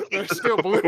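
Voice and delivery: giggling through the line; words breaking into real laughter; can't finish for laughing. Real, not acted.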